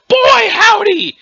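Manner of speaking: loud, high, drawn-out holler; booming cornball exclamation. Acted. Interrupting someone's concentration with a booming cornball holler. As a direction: boom it out, hammy and slow. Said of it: "Your booming cornball exclamations".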